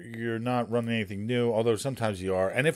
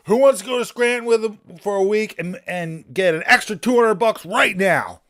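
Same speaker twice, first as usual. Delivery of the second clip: louder, higher call to the whole office; half-laughing shout-out for a volunteer; calling out to the room; 9 semitones higher, 9 dB louder than usual. Retold or imitated. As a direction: hawk the offer like an auctioneer.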